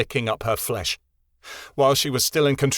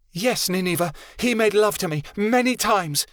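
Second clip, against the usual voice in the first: higher, spiteful cry flung at her rival; venomous yell; 9 semitones higher than usual. Acted. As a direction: throw it at her like poison. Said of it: "Chameleon yelled venomously".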